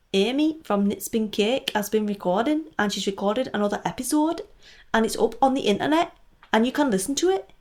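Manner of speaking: a weak, badly faked Geordie accent. Announcing Amy's new episode in a badly faked Geordie accent. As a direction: attempt a Geordie accent, not very well. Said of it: "that is my worst ever Geordie accent".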